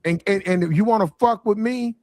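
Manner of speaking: mock street-tough impression; imitating a singer. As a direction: imitate a singer laying down hard terms. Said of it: "That's how niggas talk".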